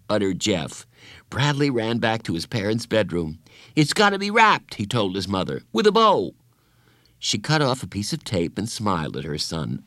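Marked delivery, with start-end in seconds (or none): 3.8-4.8 put-on high, frantic boy's voice; excited and pressing; urgent insisting. Frantic boy insists to his mother. 5.7-6.3 put-on high, frantic boy's voice; excited and pressing; urgent insisting. Frantic boy insists to his mother.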